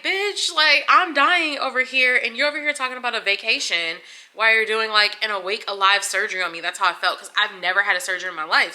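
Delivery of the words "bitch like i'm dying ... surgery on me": higher and louder, fed-up snap at the doctor; venting at the chatting surgeons, higher and louder; irritated outburst. Retold or imitated. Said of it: "I was just irritated".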